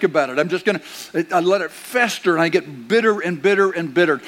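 a mild mock rant of someone stewing in anger; pretend bitter grudge. Pastor pretending to be a bitter churchgoer, mild mock anger. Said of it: "Let, pretend with me".

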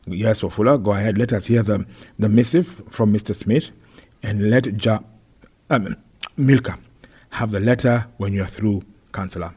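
put-on loud, officious chairman with affected accent; lightly voiced self-important mayor; pompous mayor. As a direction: grant permission grandly from the chair.

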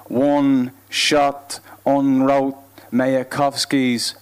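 slow, measured declaimed verse; spoken-word poetry. Acted. Poet listing the deaths of artists, slow declamation. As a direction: place each phrase apart, drawing out the words. Performs poem Last Words.

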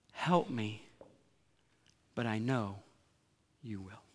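fading soft plea. Acted. Preacher quoting the crowd's plea, fading to near silence. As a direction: let it fall away into trust.

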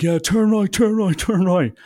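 high, insistent repeated urging; urgent directing. Retold or imitated. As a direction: act out a passenger frantically calling directions. Brother urging the driver to turn.

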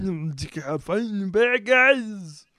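low, hushed Batman voice; Kermit the Frog voice. Acted. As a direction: mumble it low like a caped hero. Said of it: "I'm the same as Kermit the Frog voice".

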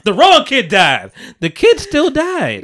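high, slow, stretched through laughter; laughing disbelief. Real, not acted.

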